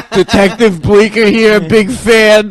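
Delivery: high, loud, put-on cop voice; mock cop caller. Friend's uncle phones Howard after the rescue, high loud mock cop. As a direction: play a proud cop bragging on air. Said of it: "He's like".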